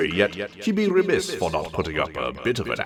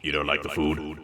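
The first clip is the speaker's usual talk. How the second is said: a touch of disappointment, softer; lamenting; 3 semitones lower, 3 dB quieter than usual. Acted. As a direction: let the hurt show quietly. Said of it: "he lamented".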